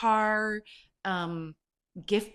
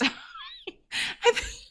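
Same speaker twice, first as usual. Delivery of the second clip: real laughter, high and squeaky, words lost; helpless laughter; 4 dB louder than usual. Real, not acted. Speaker cracking up while retelling the prank, helpless high laughter. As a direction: break up laughing mid-word.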